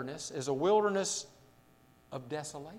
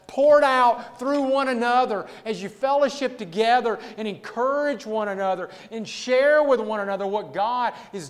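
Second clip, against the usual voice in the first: impassioned preaching; 5 semitones higher, 6 dB louder than usual. Real, not acted. Preacher urging believers to drink from living waters, impassioned. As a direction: preach it in long driving phrases.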